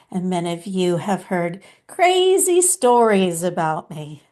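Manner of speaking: lightly voiced mystical master, measured phrases; Babaji. Channeled master addressing followers, lightly put-on deliberate sage voice. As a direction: speak as a loving spiritual teacher, pausing often, leaning on key words.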